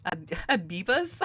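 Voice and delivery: amused. Real, not acted. Amused by knockoff brand name.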